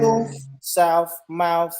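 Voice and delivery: "tooth, south, mouth" each ending in F; country F endings on "tooth", "south", "mouth". Shown as a demonstration. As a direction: say toof, souf, mouf for "tooth, south, mouth". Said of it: "my T H is, is a F".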